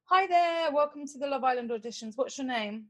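lightly voiced TV producer, upbeat; a hint of a chirpy casting producer greeting. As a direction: producer opening an audition, mildly upbeat. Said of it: "So I'm the producer, and I'm like".

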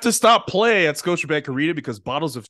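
hammed-up official announcement; mock arena announcer. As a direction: announce a silly stoppage through a laugh.

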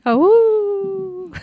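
high laughing burst. Real, not acted. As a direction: crack up, high and loud.

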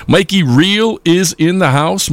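calls out Mikey instead of Mike, drawn out; slip of the name. Real, not acted. Host greeting a listener by the wrong name, drawn out. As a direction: says the name wrong, upbeat and slow. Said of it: "I'm sorry".

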